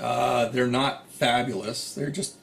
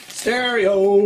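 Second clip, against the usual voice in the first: playful exclamation; 6 semitones higher, 7 dB louder than usual. Real, not acted. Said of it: "You can almost hear it".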